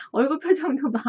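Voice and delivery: ordinary talk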